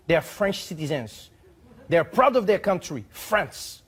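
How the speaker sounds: mock outrage, lecturing on French pride; indignant ambassador. Host reading the ambassador's letter to viewers, hammed-up indignation. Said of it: "I'll try to read it how I hope he wrote it".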